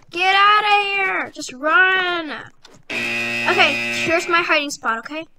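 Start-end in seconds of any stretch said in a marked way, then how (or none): 0.1-2.3 urgent shout. Real, not acted. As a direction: yell at her to flee. Urging escape from chasers.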